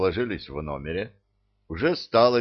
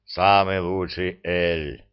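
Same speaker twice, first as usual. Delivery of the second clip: booming troll; 3 semitones lower, slower than usual. Acted. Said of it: "прогудел Зырк".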